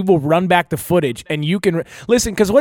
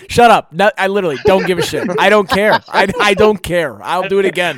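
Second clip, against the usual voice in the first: louder, brash and dismissive; defiant shout; 3 semitones higher, 5 dB louder than usual. Pretend. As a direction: shout it off, not caring. Defiant mock rant.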